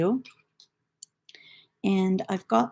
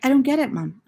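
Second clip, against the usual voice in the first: higher, louder imitated protest; baffled son; 5 semitones higher, 5 dB louder than usual. Son tells mum he is lost, mock bafflement. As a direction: mimic a son who's lost. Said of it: "And he's like".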